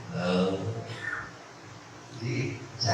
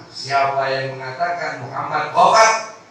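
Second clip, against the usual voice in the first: defiant threat; 4 dB louder than usual. Retold or imitated. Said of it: "nggak terima".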